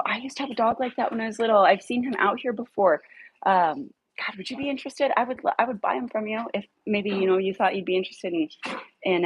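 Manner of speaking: high, fast, sugary persuasion; coaxing a neighbour into selling her dog; sweet-talking. Retold or imitated. Sweet-talking the owner to buy dog.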